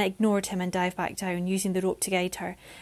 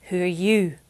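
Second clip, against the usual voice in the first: aggressive question; 5 dB louder than usual. Acted. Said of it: "Jess aggressively questioned him".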